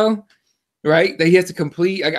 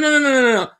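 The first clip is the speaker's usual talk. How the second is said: rapid string of higher-pitched refusals; retold protest; 5 semitones higher, much faster than usual. Podcaster answers someone on Twitter, imitated hasty protest. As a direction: cut them off with repeated noes. Retells refusing a gloating fan.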